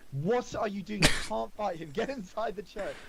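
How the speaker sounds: urgent shout. Acted. Ismark ordering the party inside the church, urgent shout. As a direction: call out a frantic order to companions. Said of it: "He shouts to all".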